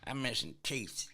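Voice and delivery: high, slow hillbilly dog voice. Acted. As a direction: lament it slowly as a backwoods hound. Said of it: "Now your dog talk like this".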